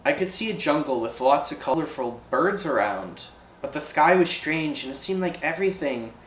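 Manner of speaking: lightly voiced ferry operator recounting something strange; uneasy ferry operator. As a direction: hesitantly confide an odd experience, lightly in character.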